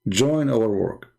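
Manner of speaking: slow, each word weighted; slow emphatic appeal. Real, not acted. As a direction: press the phrase slowly and firmly. Urging listeners to help.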